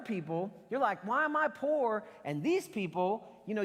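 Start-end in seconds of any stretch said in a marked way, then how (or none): 1.1-2.0 "Why am I poor?" thrown up much higher and louder, the word "I" peaking; a pleading high wail on "Why am I poor?"; anguished cry. Retold or imitated. Worshipper's anguished cry to God.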